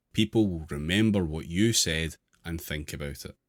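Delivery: deliberate reading with clear pauses between phrases; article read-aloud. Real, not acted. Host reading numbered advice to the group, deliberate read-aloud.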